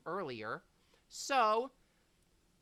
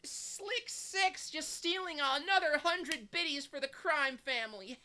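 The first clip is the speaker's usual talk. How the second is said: wolf voice; 11 semitones higher than usual. Acted. Continues in wolf voice.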